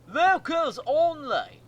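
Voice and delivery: loud, high, drawn-out mock Cockney shout; terrible Cockney holler, stretched out; bad Cockney accent. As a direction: yell it in an over-the-top, badly done Cockney. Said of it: "that's the worst Cockney accent I have ever done".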